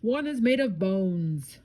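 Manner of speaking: high, drawn-out storybook wail; hammed-up frightened cry; cried out, scared. A narrator's reading. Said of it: "cried Morris".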